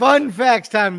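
segment intro. Acted. Co-host announcing the fun facts segment, slow. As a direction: stretch it out like a show bumper. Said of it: "segment announcement".

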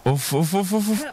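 building tension, the pitch climbs on each oof; rising excitement. Real, not acted. Watching two mice fight. (حماس متصاعد وصوت يعلى مع كل اوف)

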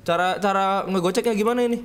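yelling in a rush while fleeing; scared horror game streamer. Real, not acted. Fleeing monster, panicked.

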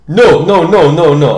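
put-on loud, insistent Polish-accented correction; Artur. Polish workmate stopping the learner, loud Polish-accented objection. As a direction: cut in loudly with a Polish accent. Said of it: "this guy called Artur going".

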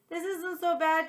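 high, yappy little dog line; yipping puppy. A narrator's reading. Dog at the groomer answering the cat, yipping. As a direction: yip it like a happy pup. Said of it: "Chomps yipped at me".

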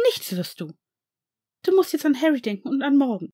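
a stern rebuke to stop him; sharp, commanding reprimand. A narrator's reading. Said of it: "sagte Narcissa streng".

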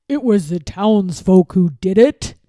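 loud, emphatic lying villain; feigned shock. A narrator's reading. Lord Droon lying to the king, feigned shock. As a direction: accuse others with false outrage. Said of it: "pretending to be greatly shocked".

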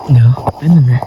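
whispered aside, breathy. Real, not acted. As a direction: whisper it so nobody hears. Pauses the scene. (กระซิบบอกว่าเดี๋ยวแป๊บ)

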